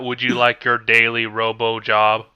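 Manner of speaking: slow, stiff robot voice. Retold or imitated. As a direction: speak like a machine assistant. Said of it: "robot voice comes out".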